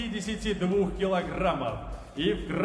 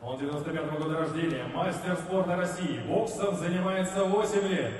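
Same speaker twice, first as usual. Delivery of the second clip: ring announcer intro. Real, not acted.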